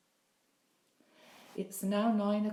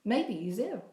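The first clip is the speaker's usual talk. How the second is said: Irish mother snapping, pitched higher; a sharp, higher Irish snap at her worried son; 5 semitones higher than usual. Acted. Mother losing patience with her son, higher Irish snap. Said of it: "Her Irish accent raises an octave and she snaps".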